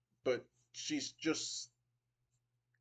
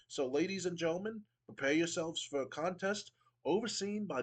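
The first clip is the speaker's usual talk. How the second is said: a hint of a haughty British commissioner, pitched higher; pompous Regal; 5 semitones higher than usual. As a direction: sneer down at the crowd with mock refinement. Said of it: "William Regal goes".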